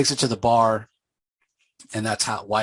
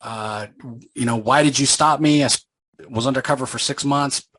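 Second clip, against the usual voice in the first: angry protest; 4 semitones higher than usual. Retold or imitated. Betrayed undercover angel confronting heaven, angry and raised. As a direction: demand answers, hurt and fed up. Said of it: "obviously he's angry".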